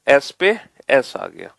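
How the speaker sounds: "S पे S आ गया" repeated slowly, each word spaced; slow it down so the class catches it. Shown as a demonstration. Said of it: "तो देखो".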